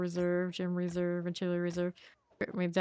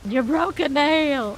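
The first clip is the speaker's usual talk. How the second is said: mock gasp; 8 semitones higher, 8 dB louder, slower than usual. Teasing about broken nail.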